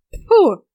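loud, high scornful "тьфу"; grandma spitting in disgust; disgusted spit. Acted. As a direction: spit the word out in contempt. Grandmother scolds the girl.

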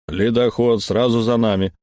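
booming through a speaking tube. Acted. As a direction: voice from a pipe. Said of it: "прогудело из переговорной трубы".

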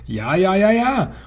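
rising high witch howl. A narrator's reading. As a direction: let it climb into a wail. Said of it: "heulte die erste Hexe".

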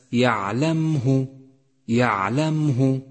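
يعلمه slow, with a silent م; careful recitation. Shown as a demonstration. Teacher warning students, reciting slowly. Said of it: "احذر من اللحن عند قراءة حرف الميم".

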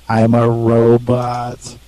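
sing-song robot. Pretend. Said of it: "maybe one-fourth robot".

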